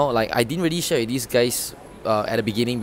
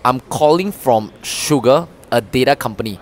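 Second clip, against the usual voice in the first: loud, slow, bright opener; eager salesman opening a cold call; enthusiastic pitch; 7 dB louder than usual. Shown as a demonstration. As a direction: sell it with energy and pauses. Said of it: "the difference will be".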